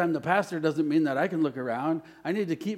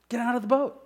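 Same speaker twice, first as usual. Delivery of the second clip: emphatic repeat; 9 semitones higher, 3 dB louder, faster than usual. Acted. Preacher repeats the command.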